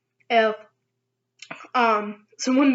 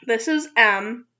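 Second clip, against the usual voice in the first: slow; slower than usual. Shown as a demonstration. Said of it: "not the same as M".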